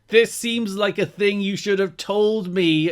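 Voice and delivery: high-pitched exasperated mock scolding; shouting. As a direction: imitate an exasperated boss telling off. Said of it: "Jarrett then starts shouting at Alex Shelley".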